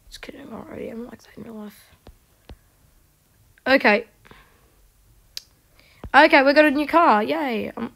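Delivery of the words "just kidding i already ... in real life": quick hushed self-mocking whisper; fast whispered joke. Real, not acted. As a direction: rush it out under your breath.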